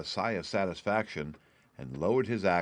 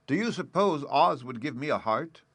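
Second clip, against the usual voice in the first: higher, louder hopeful question; hopeful Tin Man; 5 semitones higher, 5 dB louder than usual. A narrator's reading. Tin Man asking Dorothy about a heart, hopeful. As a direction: ask as if hardly daring to hope.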